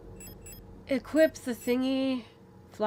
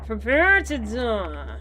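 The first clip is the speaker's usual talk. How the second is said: mock villain threat; slower than usual. Taunting enemy in put-on voice.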